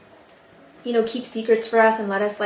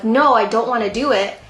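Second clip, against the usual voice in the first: louder but mild mock scream; retold scream; 5 dB louder than usual. Daughter refusing mom's order, mild mock scream. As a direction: imitate a protest, only half screamed.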